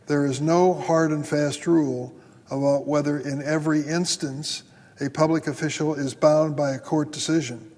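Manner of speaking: slowed right down, letting each phrase land; measured, emphatic slow reread; slow and deliberate. Shown as a demonstration. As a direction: read it again slowly so it sinks in. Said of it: "Let that sink in for a moment".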